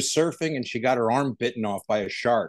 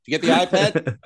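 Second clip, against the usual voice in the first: raised, hammed-up Aussie "iPad" question; comic double-act setup in a tried-on Australian accent; attempted Australian accent; 6 semitones higher, 3 dB louder than usual. Shown as a demonstration. Guest replaying a bad comedy routine, high hammed-up Australian accent. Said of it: "very bad Who's on First routine".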